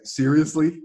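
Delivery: a touch of retold surprise; first disbelief. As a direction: ask "Seriously?" half to yourself. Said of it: "I was like".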